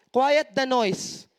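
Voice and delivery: very slow, each word drawn out; slow, weighty declaration; slow emphatic. Shown as a demonstration. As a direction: lay every word down slowly. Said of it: "preaching a phrase slowly".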